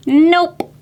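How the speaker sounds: playful whisper. Real, not acted. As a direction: whisper the answer. Playful answer to kids.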